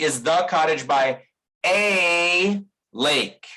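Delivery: "a lake" with "a" as a weak uh; schwa article. Shown as a demonstration. Teacher rereading the line with a weak article. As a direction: reduce "a" before "lake". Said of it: "I recommend you say".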